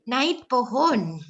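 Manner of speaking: put-on naik said as nait in a Sekadau accent; slow Sekadau-style naik pohon. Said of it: "Macam orang Sekadau".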